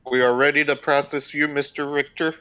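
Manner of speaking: lightly put-on Southern accent. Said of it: "With a very heavy Southern accent".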